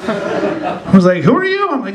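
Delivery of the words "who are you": high, startled who-are-you; baffled professor. Retold or imitated. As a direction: play the puzzled professor caught off guard. Professor confused by student.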